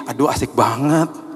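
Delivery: drawn-out "how nice" admiration; mock envious delight. Friend reacting to a Bali trip, drawn-out mock delight. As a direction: stretch it out with pretend envy.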